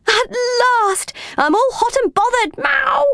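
high, bothered cat ending in a meow; Ginger. A narrator's reading. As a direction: whine like an overheated cat, pitched high. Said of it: "he meowed".

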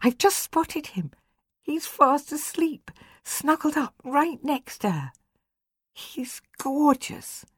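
high unvoiced whisper, thrilled; excited whisper. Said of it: "she said in an excited whisper".

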